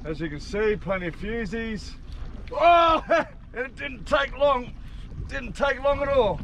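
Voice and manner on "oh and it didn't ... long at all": laughing. Real, not acted. Quick hookup, laughing delight.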